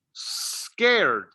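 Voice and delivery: "Scared" with a long hissed S before the rest; careful articulation. Shown as a demonstration. Teacher says keep your mouth closed, careful pronunciation. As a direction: hold the opening S of "Scared", mouth nearly closed. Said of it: "Remember, keep your mouth closed".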